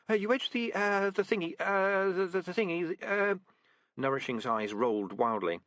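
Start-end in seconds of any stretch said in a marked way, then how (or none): 0.1-3.3 higher, stuttering frightened recruit; stammering nervous rat. Acted. Frightened recruit stammering excuses to her sergeant, higher. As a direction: trip over every word in panic. Nourishing panicking.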